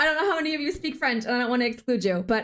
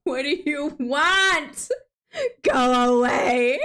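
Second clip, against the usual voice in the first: slow, drawn-out grumpy brush-off; half-joking go away; mock rude snap at customers; 4 dB louder, much slower than usual. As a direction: pretend to shoo a customer away.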